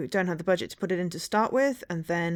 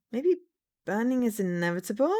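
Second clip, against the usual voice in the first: villain voice; 3 semitones higher than usual. Pretend. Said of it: "So this is now my villain voice".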